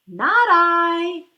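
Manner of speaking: a loud, blunt "no" from the duck; loud refusal. Acted. Duck refusing to help the little red hen, loud blunt refusal. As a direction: bark it out, flat refusal.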